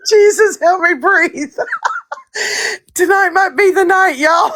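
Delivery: half sobbing from laughter; laughing. Real, not acted. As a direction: beg for air through laughter. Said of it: "I'm laughing so much".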